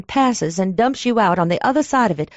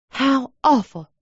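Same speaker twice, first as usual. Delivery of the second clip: a mild, slow exclamation, higher; exclaimed; 5 semitones higher than usual. Acted. Clerk feigning concern to the stranger, mildly exclaimed. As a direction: feign shock a touch, drawn out. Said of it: "I exclaimed".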